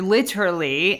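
"literally" with every syllable sounded, British attempt; British-style literally. Mother quoting her kids on a teacher, "literally" said all out. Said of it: "like, saying it all out".

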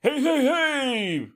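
high, loud, drawn-out show opener; over-the-top radio DJ. Retold or imitated. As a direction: blast it out like a hyped-up radio host. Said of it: "this is how he started".

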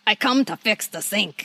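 plumber impression. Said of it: "you're so good at that".

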